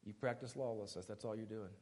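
very soft, low, with long pauses; quiet rejection. Acted. Jesus sending the lawless away, quiet rejection. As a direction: disown them softly and gravely.

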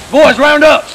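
rowdy bro calling the guys; frat bro. Acted. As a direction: round up the boys, bro style. Rallying the boys.

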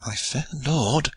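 whispered. A narrator's reading. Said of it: "whispered Alan".

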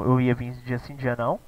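normal talking voice

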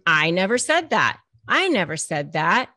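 loud, insistent denial of the narcissist; mock the narcissist flatly denying it. Narcissist loudly denying what they said to partner. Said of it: "flat out deny".

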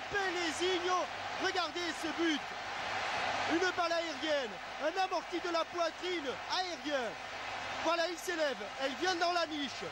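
excited sports commentary. Real, not acted. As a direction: relish every touch of the goal. Replay commentary after goal.

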